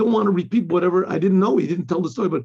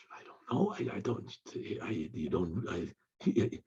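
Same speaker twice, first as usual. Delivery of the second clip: feigned confusion; 11 semitones lower, 15 dB quieter than usual. Retold or imitated.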